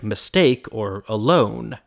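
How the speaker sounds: mistake and alone, each stressed on its second syllable. Shown as a demonstration. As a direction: slowly land on STAKE in mistake, LONE in alone. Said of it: "the accent is on the second one".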